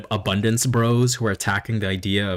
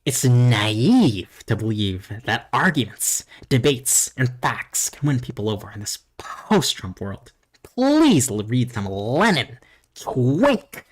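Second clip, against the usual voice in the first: snooty commenter voice; slower than usual. Acted. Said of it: "let me read this comment out".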